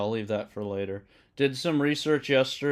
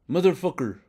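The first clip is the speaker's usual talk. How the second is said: a second rough Italian-American New York curse; Italian coworker impression; 6 semitones higher, 4 dB louder than usual. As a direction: repeat the curse in the same Italian-American New York accent, high and falling. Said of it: "that's not a good impression".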